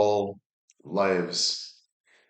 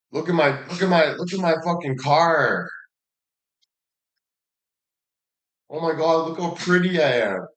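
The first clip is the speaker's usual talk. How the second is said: higher, preening voice of a vain show-off; mock vain show-off; 5 semitones higher than usual. Mocking gym guys who show off their cars, in a higher, preening voice. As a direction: lightly ham up a guy admiring himself.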